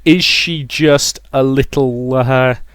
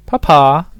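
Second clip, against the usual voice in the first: high, loud cry of delight; excited little exclamation; delighted child; 4 semitones higher, 5 dB louder than usual. Acted. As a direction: pipe up happily to papa.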